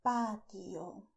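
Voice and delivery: patio with pure a and crisp t; Spanish way. Shown as a demonstration. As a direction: say patio as "PAH-tio". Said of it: "In Spanish, we say".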